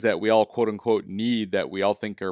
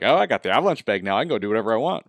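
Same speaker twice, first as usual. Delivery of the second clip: mock cocky attitude; faster than usual. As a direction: lightly imitate a cocky rider, quick at first. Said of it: "a little bit of a cocky attitude".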